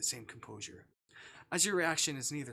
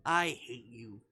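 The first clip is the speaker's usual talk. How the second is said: laughing insult; 4 dB louder, much slower than usual. Pretend. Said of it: "I'm gonna choose the I hate you route".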